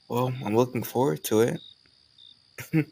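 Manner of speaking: slow, drawn-out teasing with a rising end; slowly teasing the listener before laughing. Acted. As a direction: let it linger playfully, then a rising end. Slower retake, then laughs.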